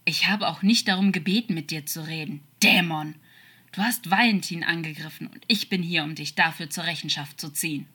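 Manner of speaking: mildly angry, forceful rebuke; indignant, firm challenge; stern accusation. Acted. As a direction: confront an enemy, punching the key words. Angel confronts the demon with accusation.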